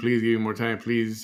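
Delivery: crying, tearful, begging voice. Retelling how she went back asking for more time: imitating crying and begging. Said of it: "crying, begging".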